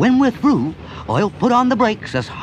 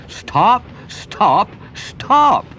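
mock yell of the pursuers; retold shout; 5 semitones higher, much slower than usual. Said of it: "they're all shouting".

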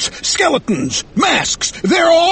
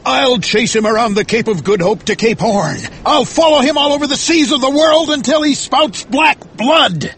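high, impassioned vow building in pitch; crying out; 12 semitones higher than usual. Acted. Ahab vows to the sky to hunt the whale, crying out. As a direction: hurl the oath at the heavens. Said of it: "looked up at the sky, and cried".

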